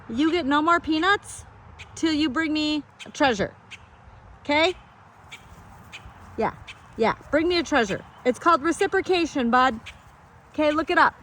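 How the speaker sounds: teasing lecture to a pesky bird; mock scolding. Real, not acted. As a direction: lay down the law to the bird, half joking.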